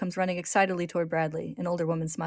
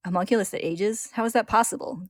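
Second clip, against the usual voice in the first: mildly insistent, raised questioning; demanding; 4 semitones higher, 5 dB louder than usual. A narrator's reading. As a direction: demand an answer, pitch lifting on the second question. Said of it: "Greed demands".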